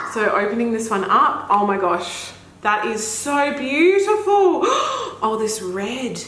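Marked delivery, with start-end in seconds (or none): 4.7-5.2 short, very high gasp. Real, not acted. Spotting the red shade, tiny high gasp. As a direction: catch your breath in delight. Opening another beautiful palette.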